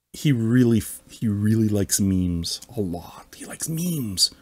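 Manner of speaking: hushed conspiratorial whisper; whispered aside about the member's memes. Real, not acted. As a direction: whisper it like a secret. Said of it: "whispered aside".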